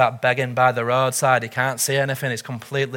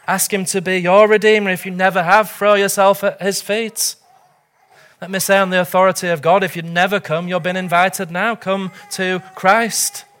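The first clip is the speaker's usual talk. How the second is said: raised, urgent pulpit appeal; impassioned preaching; 4 semitones higher, 3 dB louder than usual. Real, not acted. Preacher urging the congregation to come to Christ, impassioned. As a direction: press the call home with ringing insistence.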